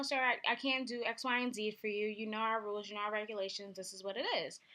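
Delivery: calm, polite customer service voice; steady and polite, explaining the rules. Retold or imitated. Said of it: "you know, calmly".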